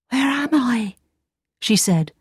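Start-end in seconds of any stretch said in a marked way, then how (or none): 0.1-1.0 dazed princess just waking; Snow White voice. Acted.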